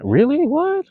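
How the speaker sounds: sharp high disbelieving "really? what?"; loud startled double-take; surprised. Real, not acted. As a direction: jump up in pitch, caught off guard. Reacting to chat message.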